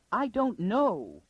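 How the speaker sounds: high, drawn-out wail. A narrator's reading. Lady answers the girl about her uncle, wailing. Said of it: "wailed the other".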